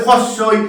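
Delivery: "হস্যই" begun with an audible h sound; wrong pronunciation. Shown as a demonstration. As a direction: say "হস্যই" as commonly mispronounced, starting on হ. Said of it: "হস্যই বলে কিচ্ছু হয় না". (হ দিয়ে শুরু করে ভুল উচ্চারণে "হস্যই")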